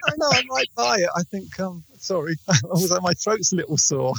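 muffled and distant; faint, boxed-in voice; inside a jar. Real, not acted. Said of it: "but you're very quiet".

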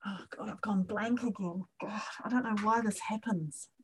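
breathless whispered aside to herself; under her breath, flustered. Real, not acted. Blanking mid-exercise, she whispers to herself.

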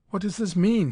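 loud, high demand. A narrator's reading. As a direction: demand an answer. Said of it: "he demanded".

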